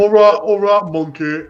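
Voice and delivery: lightly done tea-advert impression; a hint of the comedian's broad accent; Johnny Vegas. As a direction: imitate the advert voice talking to a monkey. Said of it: "Johnny Vegas has that fucking horrible ass accent".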